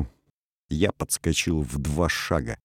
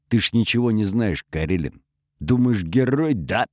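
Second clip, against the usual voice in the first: growled; 3 semitones higher than usual. Acted. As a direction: taunt him with a snarl. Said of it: "прорычал он". (рычит с насмешкой)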